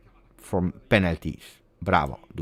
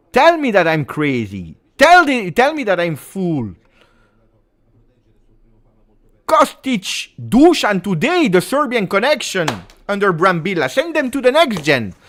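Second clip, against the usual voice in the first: high, fast animated bragging; excited boasting; 10 semitones higher, 6 dB louder than usual. Real, not acted. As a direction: gloat to the chat. Excited boasting about player.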